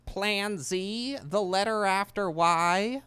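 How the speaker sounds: high, slow scheming voice; high cartoon villain, drawn out; Plankton impression. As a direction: announce the last plan grandly. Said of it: "I can't do a Plankton impression".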